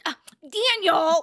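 high, loud, drawn-out cry of a name; slow, loud exasperated yell; exasperated shout. Retold or imitated. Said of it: "I like it when you go".

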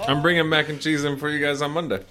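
talking through a mouthful; words round a bite of food; mouth full. Real, not acted. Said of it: "Sounds like you're eating".

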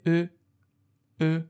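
"ا" as French eu, from the throat; rounded French vowel. Shown as a demonstration. Teacher introducing the letter, throaty rounded "ا".

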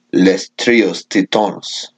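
slow, Spanish-sounding "Les Trios Titones"; Spanish accent. Shown as a demonstration. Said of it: "'Cause you just said it in Spanish".

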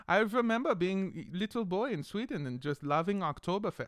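mock German accent posing as Swedish; fake Swedish accent. Recalling a Swedish boyhood, fake Swedish accent. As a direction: bluff through it in a comic German-Swedish accent. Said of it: "this is what we sound like in Sweden".

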